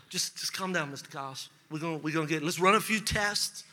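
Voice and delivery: low, soft reassuring doctor; a doctor soothing his patient; calming doctor. Retold or imitated. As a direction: settle the patient down quietly.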